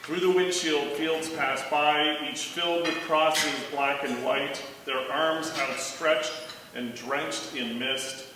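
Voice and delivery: measured poetry reading with deliberate pauses; poem recital. Acted. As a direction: read the poem line by line, letting each image land. Reads own poem aloud.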